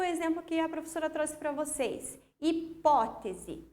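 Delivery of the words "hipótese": "Hipótese" slowly, PÓ leaned on; syllable by syllable. Shown as a demonstration. Teacher pointing out an accented word, "Hipótese" syllable by syllable. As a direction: stretch "Hipótese" out, stressing PÓ. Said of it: "Também acentuado".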